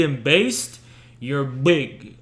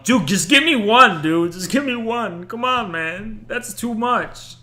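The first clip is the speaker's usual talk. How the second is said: mock begging; 5 semitones higher than usual. Begging for a new PC.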